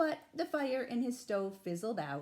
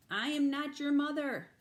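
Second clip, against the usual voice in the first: stern; 6 semitones higher, 7 dB louder than usual. A narrator's reading. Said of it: "Bruce was very stern".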